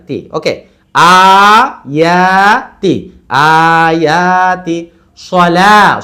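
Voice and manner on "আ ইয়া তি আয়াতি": long আ and ইয়া, quick তি; two stretches, short ending. Shown as a demonstration. Teacher modelling the word piece by piece, stretched vowels then short তি. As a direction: hold আ and ইয়া, then clip তি in আয়াতি. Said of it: "ইয়া, দুইটাই টান".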